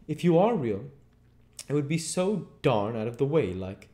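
high, loud, wondering tramp voice; amazed tramp. Acted. Tramp tests whether the invisible man is real, amazed.

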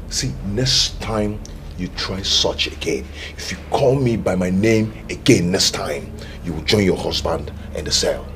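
menacing. Acted. Threat, slow and low.

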